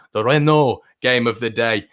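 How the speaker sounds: playful attempt at an Irish accent; best Irish accent. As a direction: put on an Irish accent for fun. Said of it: "that is my best, uh, Irish accent".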